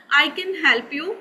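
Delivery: slow "help" with a twist of the tongue in native English style; slowly and carefully, in a native English accent. Shown as a demonstration. Teacher demonstrating the contrast to students, slow native English accent. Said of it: "style of the native English speakers".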